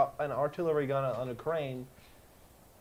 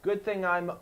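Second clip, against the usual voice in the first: mock cocky pilot; 3 semitones higher, 6 dB louder, slower than usual. Acts out the pilot's reaction.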